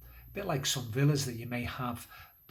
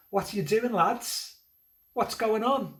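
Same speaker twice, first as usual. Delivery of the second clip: high, louder friendly surprise at the lads; amused Jesus; 9 semitones higher, 5 dB louder than usual. Acted. Jesus looking up at the lads, amused and surprised. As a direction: cheerfully ask what they're up to.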